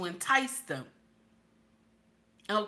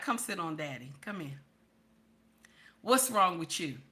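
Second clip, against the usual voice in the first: husband coaxing; 4 semitones lower, 3 dB quieter than usual. Retold or imitated. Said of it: "He's like".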